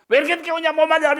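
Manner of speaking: high, sharp scolding of a latecomer; mock angry scolding. Church group member scolding a latecomer, high and irritated. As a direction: snap at them for being late, pitched high. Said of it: "화로 시작해서".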